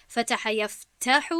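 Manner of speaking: یفتح broken after "yaf", "ta" pushed out; stress on the fatha. Shown as a demonstration. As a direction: split یفتح and lean on "ta". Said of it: "با فتحه".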